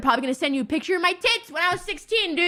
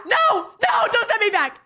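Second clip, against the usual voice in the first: laughing plea; 6 semitones higher than usual. Real, not acted. Laughing plea not to return.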